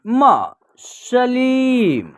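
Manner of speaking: सलीम said slowly after building it syllable by syllable; drawn-out सलीम as the finished word; sounding out a word. Shown as a demonstration. Teacher blending syllables into सलीम for students, slow. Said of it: "ल में बड़ी की मात्रा है ली".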